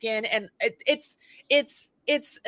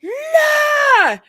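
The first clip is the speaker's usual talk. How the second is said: high, loud, drawn-out raging yell; sustained mock scream of rage; 7 dB louder than usual. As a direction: imitate a sudden burst of pure fury. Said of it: "pure rage and fire and just".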